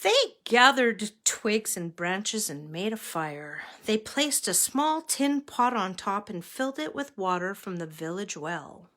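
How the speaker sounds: measured picture-book reading; story narration. A narrator's reading. Reader telling children of three travelling monks, story narration. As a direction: read a children's story aloud.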